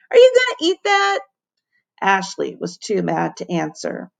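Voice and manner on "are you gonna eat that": cheeky. A narrator's reading. Ham asking after the sandwich.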